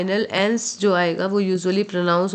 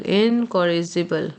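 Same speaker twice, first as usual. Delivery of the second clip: slow model word; much slower than usual. Shown as a demonstration. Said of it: "repeated model word".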